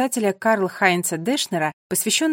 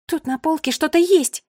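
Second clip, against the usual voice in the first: loud, higher, eager; excited loud call; 7 semitones higher, 5 dB louder than usual. A narrator's reading. Mira calls friends to the shelf, excited loud. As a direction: shout the find to everyone. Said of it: "Она совсем забыла, что нужно говорить тихо".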